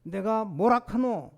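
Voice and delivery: slow Gyeongsang told-you-so; 경상도 사투리로 천천히; Gyeongsang dialect. Shown as a demonstration. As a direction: say it like a Gyeongsang speaker scolding. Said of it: "경상도 말로 말하면".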